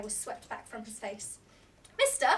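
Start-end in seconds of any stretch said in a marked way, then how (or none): 2.0-2.3 put-on child's call, much higher and louder. A narrator's reading. Boy calls out to the racing driver, loud and high. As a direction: shout to catch the man's attention. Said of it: "Will called".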